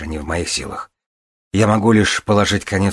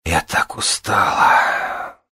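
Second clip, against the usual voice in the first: weary complaint; 2 semitones higher, much slower than usual. Acted. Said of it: "пожаловалась умирающая".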